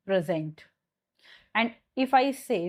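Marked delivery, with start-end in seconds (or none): 0.1-0.7 the noun "present", PRE-sent; noun stress on PRESENT. Shown as a demonstration. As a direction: PRESENT stressed on the first syllable, falling low. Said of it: "So this is your noun".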